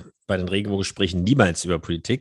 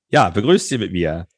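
boxing ring announcer; 5 dB louder, slower than usual. Acted. Announces co-host from blue corner.

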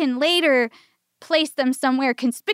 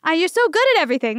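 fake sweet cover-up; 5 semitones higher, 4 dB louder, much faster than usual. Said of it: "That's what I said".

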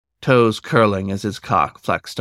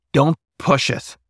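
proud bark; 5 semitones higher than usual. A narrator's reading. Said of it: "the wolf barked proudly".

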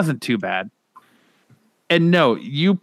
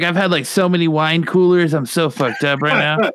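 fake drunk voice; 4 semitones higher than usual. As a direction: sell it like you're wasted on wine coolers. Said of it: "but just say you are".

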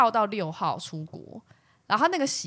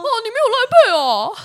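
much higher, much louder teasing put-on voice; mocking scorn; 13 semitones higher, 10 dB louder than usual. Customer taunts the restaurant without Line Pay, in a loud high sneer.

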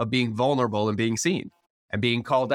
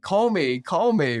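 eager invitation; 6 semitones higher, slower than usual. Retold or imitated. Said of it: "And now I'm like".

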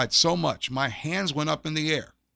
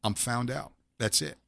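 quiet resigned; 2 semitones lower, 7 dB quieter than usual. Retold or imitated. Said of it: "I just said".

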